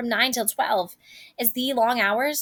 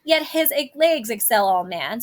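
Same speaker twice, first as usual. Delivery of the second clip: teasing nurse; 6 semitones higher, 3 dB louder than usual. Acted. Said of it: "And then she goes".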